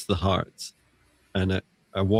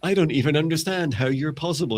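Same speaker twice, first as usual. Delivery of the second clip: higher-pitched mock bafflement; stunned person; 7 semitones higher than usual. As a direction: act out baffled disbelief, pitched up. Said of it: "you're like".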